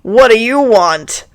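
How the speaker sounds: loud, irritated demand; suspicious aunt's loud greeting; curt demand. Acted. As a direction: challenge the caller at the door. Suspicious aunt answers the door.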